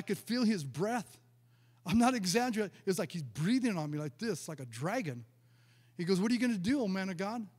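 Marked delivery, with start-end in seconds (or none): 6.2-7.5 mocking, needling imitation of Satan; retold taunting. Preacher voicing Satan jeering at the man of God, taunting. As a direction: taunt him with mock questions. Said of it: "Just taunting me".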